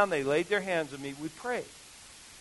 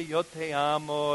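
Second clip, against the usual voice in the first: sweet Spanish; 4 semitones lower, 4 dB quieter, slower than usual. Shown as a demonstration. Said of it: "it's real sweet".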